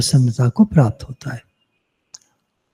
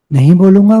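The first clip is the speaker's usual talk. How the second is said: "नहीं बोलूँगा" louder and higher, insistent; firm refusal; 4 semitones higher, 5 dB louder, faster than usual. Retold or imitated. Preacher voicing a devotee's firm vow of silence, louder. Vows of speech restraint voiced.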